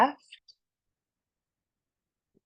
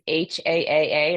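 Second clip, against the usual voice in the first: heart sound haaa. Shown as a demonstration. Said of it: "the sound of the heart, which is".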